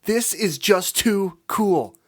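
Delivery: high, loud thrilled cry; squealing with glee; excited shout. A narrator's reading. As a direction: burst out with delight. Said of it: "Angel shouted excitedly".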